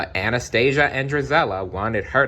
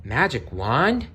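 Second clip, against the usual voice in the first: higher, slow astonished question; gasping surprise; 5 semitones higher, slower than usual. Acted. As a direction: gasp it in wonder. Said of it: "gasped Cinderella".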